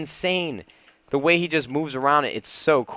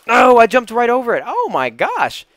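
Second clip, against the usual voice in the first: high, loud cry of frustration; dismayed yell; 9 semitones higher, 8 dB louder than usual. Real, not acted. Gamer jumped right over the block, dismayed yell. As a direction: wail it as the jump goes wrong. Overshoots the jump again.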